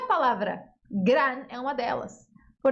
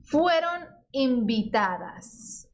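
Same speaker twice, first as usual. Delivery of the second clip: Fueron invitadas, very slow and clear; slow model reading; much slower than usual. Shown as a demonstration. Teacher reading the Spanish text line slowly. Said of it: "a gente usa invitar".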